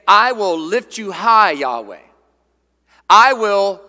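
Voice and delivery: loud, emphatic declaration to God; exalting proclamation. Acted. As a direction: proclaim it, punching the key words. Voicing David exalting God.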